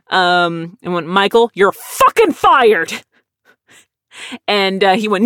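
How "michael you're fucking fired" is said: louder, slow, deliberate firing; retold firing. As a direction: spell it out slowly like a furious boss. Boss firing employee on the spot.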